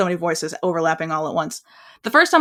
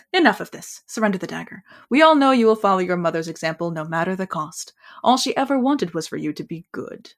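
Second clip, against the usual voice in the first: imperious villain. Acted. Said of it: "bad impression voiceover".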